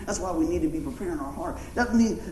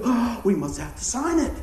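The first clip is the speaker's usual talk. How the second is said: mock panic; 4 semitones higher than usual. Mimics panicked politicians rushing.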